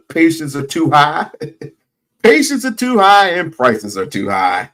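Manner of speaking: laughing through the words. Real, not acted. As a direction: giggle at the slip while talking. Laughing at own slip.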